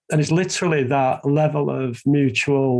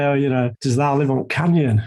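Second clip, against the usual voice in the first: put-on Yorkshire accent. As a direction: slip back into a hint of Yorkshire. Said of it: "saying it in a Yorkshire accent".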